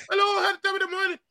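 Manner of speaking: hammed-up high island voice; high pitched Trini voice. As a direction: imitate a squeaky island greeting. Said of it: "They be having a high pitched voice like".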